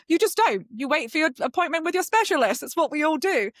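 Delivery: high, laughing emphatic voice; laughing exasperation. Real, not acted. Laughing exasperation about hospitals.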